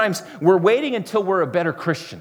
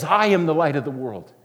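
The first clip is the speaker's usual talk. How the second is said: Jesus proclaiming. Retold or imitated. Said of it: "this voice rings out and says".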